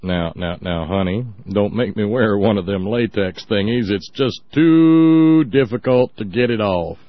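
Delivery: lightly voiced coaxing husband; a hint of a husband pleading with his honey; mock husband voice. Host plays a husband pleading with his wife, lightly voiced. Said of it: "Or maybe I needed to do that with a Russian accent".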